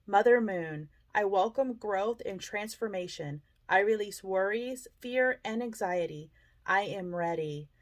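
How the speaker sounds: measured invocation in short phrases with pauses; prayer recitation. Real, not acted. Meditation host reciting the new moon prayer over a candle, prayerful. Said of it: "I would like to recite the prayer".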